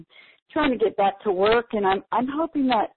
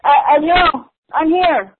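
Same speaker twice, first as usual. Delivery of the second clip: gushing shopping channel caller; 8 semitones higher, 9 dB louder than usual. Real, not acted. Caller excited to be on air.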